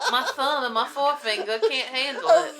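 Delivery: high mock-tearful whine; suffering Southerner. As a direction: wail about it in hammed-up Southern. Playing weary Southern gas pumpers.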